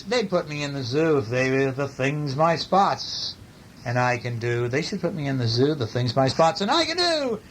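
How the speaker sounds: animated picture-book read-aloud; story reading. A narrator's reading. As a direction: read it with big, stretched key words.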